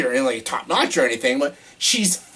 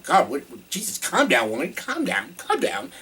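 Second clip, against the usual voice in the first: exasperated reaction; 3 semitones higher than usual. Retold or imitated. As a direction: tell her to calm down, amused. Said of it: "I'm like".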